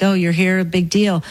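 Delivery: unimpressed, deflating tone; mock a loved one who can't be bothered; bored shrug. Loved ones greeting you with mock boredom, unimpressed. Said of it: "they look at us like".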